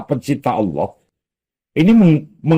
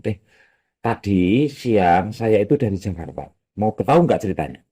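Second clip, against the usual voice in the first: eager storyteller; 4 semitones lower than usual. Acted. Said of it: "Ngomongnya kayak gitu".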